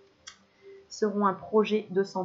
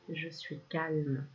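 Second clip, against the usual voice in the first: calm mantra; much slower than usual. Shown as a demonstration. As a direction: let each word settle, slowly. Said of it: "Tu peux répéter dans ta tête ou à voix haute". (mantra lent et apaisé)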